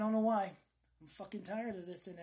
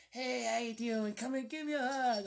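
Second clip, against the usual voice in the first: imitating a raspy smoker, higher pitched; raspy smoker greeting; 4 semitones higher, 4 dB louder than usual. Heavy smoker greeting a visitor for a hug, raspy. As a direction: hail them like a heavy smoker. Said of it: "Now I have that raspy voice".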